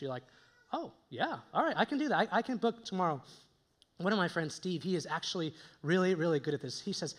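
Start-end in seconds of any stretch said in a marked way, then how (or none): 0.7-3.2 obliging agreement. Acted. Acts agreeing to friend's lunch request.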